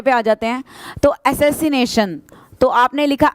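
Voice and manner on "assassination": assassination drawn out slowly, each part clear; slow, syllable by syllable. Shown as a demonstration. Teacher spelling assassination slowly for the class. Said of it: "आप ऐसे लिखोगे assassination".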